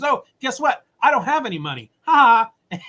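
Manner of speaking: high, cheeky taunt ending in a laugh; mocking taunt. Reporter taunting the casino man, high and laughing. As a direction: rub it in with a laugh.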